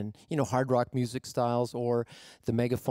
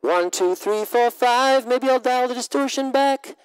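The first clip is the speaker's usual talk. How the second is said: loud, much higher, distorted; counting through an amp; amp distortion; 11 semitones higher, 8 dB louder than usual. Shown as a demonstration. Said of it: "So let's have a listen".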